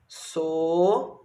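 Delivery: sorridente with long gaps, so... rri... den... te; syllable by syllable. Shown as a demonstration. Teacher writing the word for pupils, syllable by syllable. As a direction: dictate sorridente one drawn-out syllable at a time. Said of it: "Quantas sílabas tem?".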